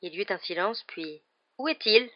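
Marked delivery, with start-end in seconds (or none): 1.6-2.1 raised, quavery official's voice; quavering voice. A narrator's reading. Commission member asking after the animal, quavering. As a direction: quaver the question at a higher pitch. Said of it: "dit la voix chevrotante".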